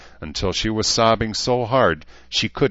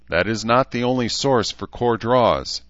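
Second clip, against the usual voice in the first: a touch of bitterness, higher; bitter; 6 semitones higher, 5 dB louder than usual. A narrator's reading. Avatar answering about core draws, bitter. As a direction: correct with understated bitterness. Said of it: "Ishtar said bitterly".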